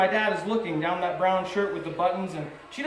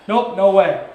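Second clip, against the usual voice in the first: much louder, curt no; husband refusing his wife outright, loud; loud flat refusal; 10 dB louder than usual. Retold or imitated. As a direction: slam the door on it. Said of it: "That's my dad".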